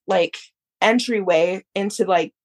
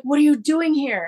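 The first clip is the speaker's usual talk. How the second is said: higher-pitched, retold surprise; mock-astonished question; surprised uncle; 7 semitones higher than usual. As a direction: imitate an uncle startled to see you. Uncle surprised to find her.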